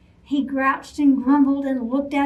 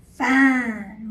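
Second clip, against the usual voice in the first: a louder roaring fine; roared; 4 dB louder than usual. Acted. Frustrated Bear giving up on the squirrels, roared. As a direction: roar it. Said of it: "roared Bear".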